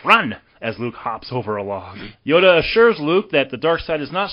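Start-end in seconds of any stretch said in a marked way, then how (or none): 0.1-0.4 higher-pitched mild mock yell; retold yell. Retelling Yoda yelling at Luke, mild yell. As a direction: give a quick, contained yell. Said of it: "Yoda just yells".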